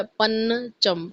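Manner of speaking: पन चम split slowly into two separate syllables. Shown as a demonstration. Teacher sounding out पंचम for students. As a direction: break पन चम apart, slowly. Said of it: "पंचम, तो बिंदु आ गया".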